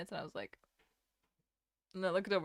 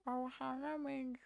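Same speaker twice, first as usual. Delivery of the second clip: Stitch voice attempt; 4 semitones higher, 3 dB quieter than usual. Shown as a demonstration. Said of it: "make my tongue do a specific shape".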